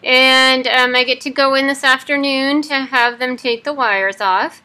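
talking through clenched teeth; jaw wired shut. Real, not acted. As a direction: speak with teeth held shut. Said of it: "day fourteen of having my jaw wired shut".

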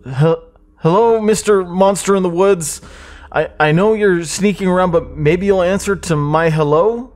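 sing-song taunt into dark woods; mock sing-song call. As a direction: call out to the monster like it's a game.

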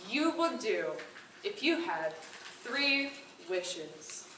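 a hint of lofty disdain; condescending god. Jupiter looking down on the woodcutter, mild condescension. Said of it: "Jupiter kind of looked down at him and said".

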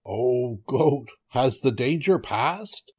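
slow, stretched call; lightly voiced anxious tiger. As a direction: draw the question out slowly. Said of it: "the tiger called out".

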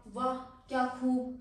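slow, drawn-out wah of admiration; admiring praise. Shown as a demonstration. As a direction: praise it like you are truly impressed. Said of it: "बच्चों को हम बोलते रहते हैं". (धीमी, खिंची हुई वाह)

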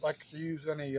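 talking through a mouthful; mouth full. Real, not acted. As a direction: speak around a bite of fish. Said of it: "I'm talking with my mouth full".

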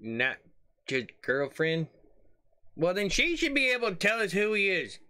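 quiet aside. Real, not acted. Muted quiet commentary.

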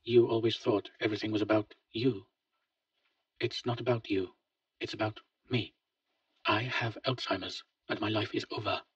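gently. Acted. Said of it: "He spoke gently".

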